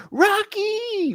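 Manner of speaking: high-pitched mock call of a name; drawn-out, very high imitation yell; imitated yell. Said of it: "So she just yells".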